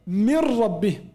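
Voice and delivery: Mir rabbihim with a doubled r; merged noon. Shown as a demonstration. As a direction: go straight to the ra. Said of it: "We don't pronounce noon".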